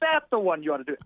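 lightly imitated comedian's verdict; Gilbert Gottfried. Comedian advising the writer, light imitation. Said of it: "I will do the worst imitation".

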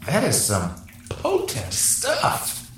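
slow, woozy drugged drawl; drugged and dazed. Pretend. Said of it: "quite a dose you just got there".

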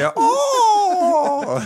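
a very high, loud wailing "oh!" in a mock Asian accent; Asian lady impression. Copying the lady who saw him fall, in a shrill Asian accent. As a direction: shriek the Asian lady's "oh!" in her accent. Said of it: "That's a good Asian lady impression".

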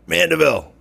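calling out a name. Retold or imitated. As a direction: call his surname to get his attention. Someone calls his name.

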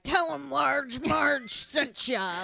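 slow, high spooky quote; Large Marge quote. Retold or imitated. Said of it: "I always quote".

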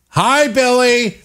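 high, slow sing-song chorus; mock group greeting. Support group greeting Billy, mock sing-song welcome. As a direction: draw it out like a pretend support group.

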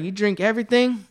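high-pitched mock amazement; incredulous, voice climbing high; retold incredulous question. Retold question to drunk inmate.

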